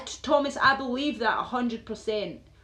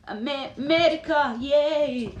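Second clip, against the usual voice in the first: higher, louder playful hurrah; mock patriotic cheer; 5 semitones higher, 7 dB louder, slower than usual. Speaker cheering America to American viewer, playful loud cheer. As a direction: cheer it like a rally.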